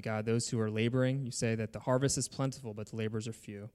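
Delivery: measured prayer in phrases with pauses; public prayer. Real, not acted. Pastor praying for Doug and Sandy, earnest public prayer. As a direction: address God aloud on the congregation's behalf.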